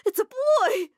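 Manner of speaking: high loud burst; stunned joy. Acted. Mom tells her children it's a boy, high and loud. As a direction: blurt out the news.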